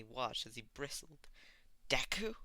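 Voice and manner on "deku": sharp rising surprise, higher and louder; startled. A narrator's reading. Bakugo waking to find Deku here, startled. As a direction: blurt his name in disbelief.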